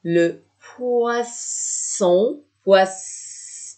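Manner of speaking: poisson stretched out slowly; slow model word. Shown as a demonstration. Teacher to students, slowly modelling poisson. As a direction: draw poisson out very slowly for the class. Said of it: "deux S".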